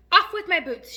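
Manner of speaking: high, loud urgent order; shout. A narrator's reading. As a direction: shout it in a panic. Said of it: "shouted the centipede".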